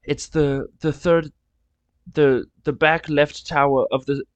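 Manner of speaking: a touch of a tearful, apologetic guard; lightly voiced guard, sorry and teary; mild choked-up official; crying guard. Guards cry while refusing.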